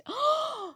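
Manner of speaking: a sharp high shocked gasp. Retold or imitated. Retelling the elevator snub, a high gasp. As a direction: gasp in disbelief. Shocked by man walking first.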